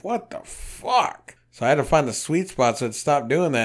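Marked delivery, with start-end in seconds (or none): 0.0-1.3 slow, high, drawn-out disbelief; baffled what the fuck. Retold or imitated. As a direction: stretch it out high, totally baffled. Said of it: "And I'm like".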